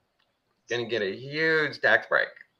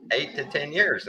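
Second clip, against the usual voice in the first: put-on outraged old man; 6 semitones higher than usual. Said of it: "I think he said".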